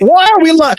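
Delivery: high-pitched exasperated demand; exasperated disbelief. Real, not acted. Co-host calling out a false WrestleMania claim, exasperated. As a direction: call out the lie in disbelief.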